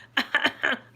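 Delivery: loud spluttered laugh, badly disguised; imitating a laugh passed off as coughing; suppressed laugh. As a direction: let a stifled laugh burst out. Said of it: "not laughing".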